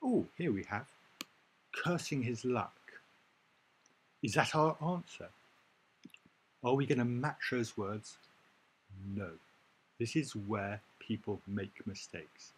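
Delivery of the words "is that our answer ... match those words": leading question. Shown as a demonstration. Teacher asks class, suspicious.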